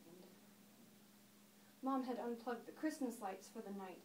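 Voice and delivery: understated, reflective monologue delivery; lightly acted storyteller looking back; Daphne. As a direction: settle into the memory, pausing between thoughts.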